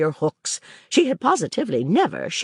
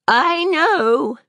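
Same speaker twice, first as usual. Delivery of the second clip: cried out; 12 semitones higher, 4 dB louder than usual. Acted. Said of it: "she cried".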